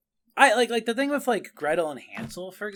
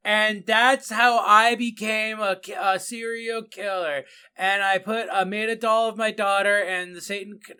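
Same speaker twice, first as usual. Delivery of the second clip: fable-like voiceover; 4 semitones higher, 3 dB louder than usual. Retold or imitated. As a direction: read it out like a solemn fable. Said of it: "Why does she deliver it like a fable?".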